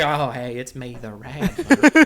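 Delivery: slipping back into a drawled cowboy greeting; cowboy character returning. Pretend. Host putting the hat back on for the boys, cowboy character.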